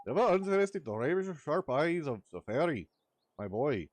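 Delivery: excitable Welsh sidekick, loud and high; chirpy fairy scolding his mate. Acted. Voices Drippy in game dialogue.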